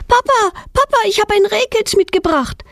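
high, eager call to dad; excited shout. A narrator's reading. Girl calls to her dad about the fawn, excited high call. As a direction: burst in calling for dad, thrilled. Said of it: "schreit Petronella mit aufgeregter Stimme".

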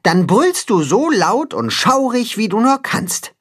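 Katzenhuhn instructing. Acted.

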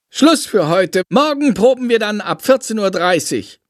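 high, brisk teacher closing rehearsal. A narrator's reading. Frau Schmidt ending rehearsal, high and brisk. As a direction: wrap it up curtly.

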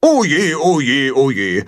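hammed-up goose dismay; fretting goose. A narrator's reading. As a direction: wring your wings in worry. Goose Gram lamenting.

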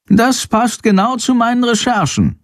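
high, raspy little bat voice; raunende Fledermaus. Acted. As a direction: murmur it like a secretive bat. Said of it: "raunt Chandor". (raunende, hohe Fledermausstimme)

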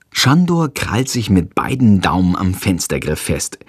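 plain reading voice

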